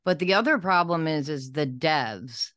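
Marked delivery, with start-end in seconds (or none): 1.3-2.5 lisping without front teeth; missing front teeth. Real, not acted. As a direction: say it through a gap in the teeth. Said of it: "which I can't say without my teeth".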